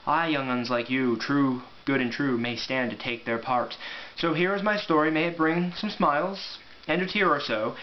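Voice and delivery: measured storybook poem reading; poem recital. Acted. Reading the book's opening poem to viewers, poem recital. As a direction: recite it like an old bard by the fire.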